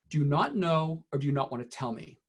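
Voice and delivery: a touch of gentle respect, no pressure; lightly reassuring teacher question; respectful, gentle ask. Shown as a demonstration. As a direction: ask it so they know it's okay not to answer. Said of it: "that is said in a way that it, you respect".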